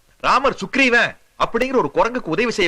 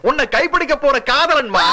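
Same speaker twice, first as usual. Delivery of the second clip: proud announcement; 5 semitones higher than usual. Acted. Kidnapper proudly introduces the lover.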